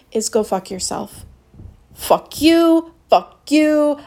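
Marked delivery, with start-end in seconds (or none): 1.9-4.0 angry. Real, not acted. Angry dismissal of cowards.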